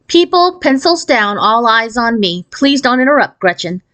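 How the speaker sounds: teacher hushing the class, firm; stern teacher. Acted. Teacher calls class to order.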